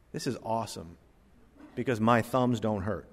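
softly, as if thinking to yourself; low, hushed recalled thought; quiet relieved thought. Retold or imitated.

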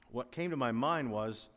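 usual speaking voice

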